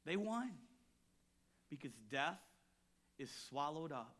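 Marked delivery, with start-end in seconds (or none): 0.0-0.5 triumphant. Acted. Raised repeat of same line.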